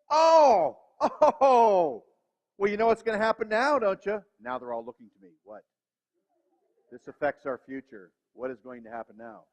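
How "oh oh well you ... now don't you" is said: put-on higher, louder kid's demand; kids demanding. Kids confronting dad, in a higher, louder demanding voice. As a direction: play the kids catching dad out. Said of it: "So now kids is like".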